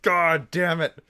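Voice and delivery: thrilled curse. Real, not acted. Reacting to the hero's rescue, an awed loud curse. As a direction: let it out as the hero wins.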